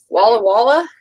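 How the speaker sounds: Walla Walla said clearly as WAH-luh WAH-luh; Walla Walla clarified. Shown as a demonstration. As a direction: say Walla Walla carefully, both halves alike. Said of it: "W A L L, W A L L".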